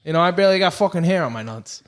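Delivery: ordinary talk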